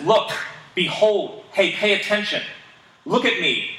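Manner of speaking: a preacher's rhetorical shout. Retold or imitated. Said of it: "Paul is rhetorically shouting".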